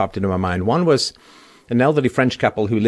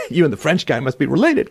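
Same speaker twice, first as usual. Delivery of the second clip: laughing amazement; 5 semitones higher than usual. Retold or imitated. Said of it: "And I was like".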